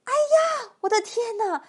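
put-on high, startled old-lady outcry; high-pitched "oh my goodness" panic; frightened cry. A narrator's reading. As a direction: shriek in mock terror, storybook style. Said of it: "瘦小的老妇人喊起来".

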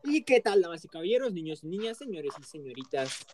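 grand showman welcome; ringmaster. Acted. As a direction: announce it like a circus host. Show opening to audience.

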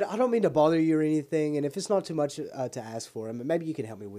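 timidly polite caller; apologetic over-politeness; overly polite. Retold or imitated. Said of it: "It's all polite".

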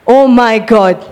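amazed realisation. Retold or imitated. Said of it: "you will say".

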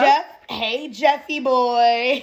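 drawn-out teasing call; playful greeting. Real, not acted. Calling out to absent friend.

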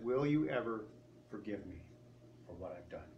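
understated plea, fading very soft; hushed retold plea. Former guard asks her to forgive him, hushed plea. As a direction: let the plea drop away almost to nothing.

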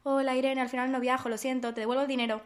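lightly voiced older lady; a hint of a polite older woman; quoting the older lady. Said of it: "me habla la señora".

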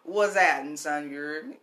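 lightly put-on New Orleans accent. Shown as a demonstration. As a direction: show off a New Orleans phrase. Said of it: "New Orleans accent".

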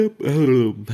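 yawning out an apology. Real, not acted. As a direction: end of a yawn. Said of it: "perdón por bostezar".

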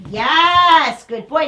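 loud, high praise; excited praise. Real, not acted. Trainer praising her dog for turning back. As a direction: throw a little party with your voice.

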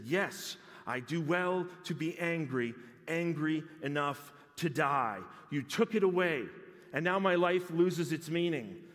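a sulking prophet's defiant reply; angry Jonah. Acted. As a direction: throw it back at God. Jonah answering God in anger.

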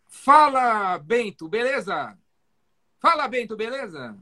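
bright high call, big energy on Fala; phone greeting to a doctor, bursting with enthusiasm; enthusiastic greeting. Shown as a demonstration. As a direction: greet him like an old friend, full of zest. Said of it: "Com o maior entusiasmo, maior tesão do mundo".

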